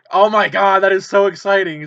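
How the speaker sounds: high, loud, thrilled cry; excited outburst. Retold or imitated. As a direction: gasp it out like the dream came true. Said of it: "and I was like".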